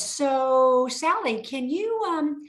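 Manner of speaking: falsely sweet high coaxing voice; Daryl the banker. Retold or imitated. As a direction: lure her away with syrupy kindness. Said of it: "And Daryl says".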